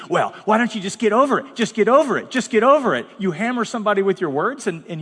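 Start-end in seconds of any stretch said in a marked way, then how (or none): 0.1-3.1 mock impatience. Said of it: "expect them to immediately".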